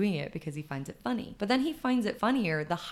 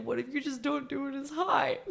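nephew's idea; 7 semitones higher than usual. Retold or imitated. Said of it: "He's like".

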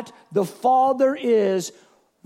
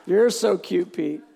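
teasing wink; 6 semitones lower than usual. Retold or imitated. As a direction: tease Peter gently, like a wink. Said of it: "Jesus kinda winks at him".

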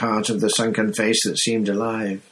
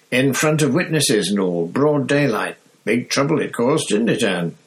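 higher, gossiping conductor; Stan's voice; 4 semitones higher, 3 dB louder than usual. Acted. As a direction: tell it like juicy gossip to the driver. Stan voiced telling the story.

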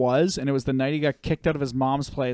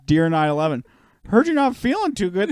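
put-on high, get-well-card child voice; sweet kid voice; 6 semitones higher, 6 dB louder than usual. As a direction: read it like a kind child. Child's letter to 9/11.

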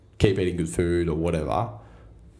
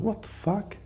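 shocked outburst; 4 dB quieter, slower than usual. Retold or imitated. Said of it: "I was like".

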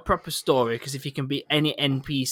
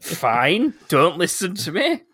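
sarcastic; 4 semitones higher, 4 dB louder, slower than usual. Retold or imitated. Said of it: "Just sarcastic".

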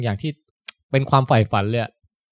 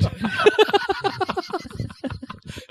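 high breathless laugh; 7 dB quieter than usual. Real, not acted. Laughing at numb mouth story.

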